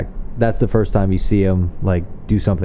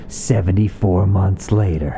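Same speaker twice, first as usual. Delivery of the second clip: mock title card. Mocking movie title cards.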